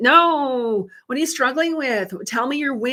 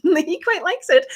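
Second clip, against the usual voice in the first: laughing; 7 semitones higher, 5 dB louder, slower than usual. Real, not acted. Host teasing viewers about her husband's nickname, laughing. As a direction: repeat it higher and slow, laughing through the words.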